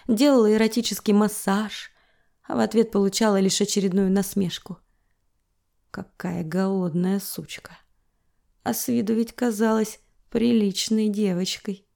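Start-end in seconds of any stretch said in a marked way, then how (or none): 5.9-7.8 mocking whisper. Husband's mocking words recalled.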